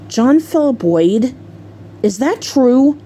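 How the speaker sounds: mildly stern full-name summons; slow, stern questioning, rising at the end; retold angry mom. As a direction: imitate a mother demanding the truth. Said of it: "she angrily looked at her son".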